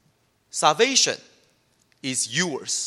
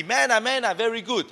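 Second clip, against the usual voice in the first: higher, delighted mock cheer for manna; mock happy; 5 semitones higher than usual. Preacher mimics Israelites happy with manna, mock delight. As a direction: play the grateful Israelites, bright and pleased. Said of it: "in the beginning they are happy".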